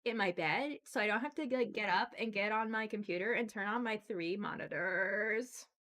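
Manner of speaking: put-on high, gushing valley girl voice. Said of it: "in Valley Girl voice".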